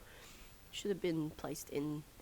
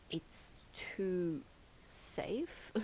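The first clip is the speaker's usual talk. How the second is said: whispering; much slower than usual. Real, not acted. Whispered verdict on the game.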